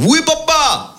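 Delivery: put-on high eager child's voice; high son's reply. Son answering his father in a high eager voice. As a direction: chirp it up like a young boy.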